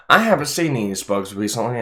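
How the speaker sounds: chewing popcorn while talking; mouth full. Real, not acted. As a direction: talk through a mouthful. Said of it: "I have my mouth full".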